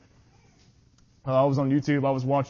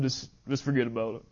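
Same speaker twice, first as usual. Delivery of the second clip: quiet imagined dismissal; 3 semitones lower, 6 dB quieter than usual. Pretend. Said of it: "I would have said".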